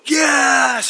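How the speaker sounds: sudden high shouted yes; mock cheer. Dad did not cheer yes like this. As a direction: yell it like a fan in the stands. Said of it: "he didn't go".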